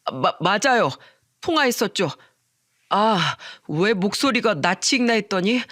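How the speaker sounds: stammering, sheepish man; flustered realisation. Acted. Friend recognising the manager's voice, flustered realisation. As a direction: backtrack haltingly as it dawns on you.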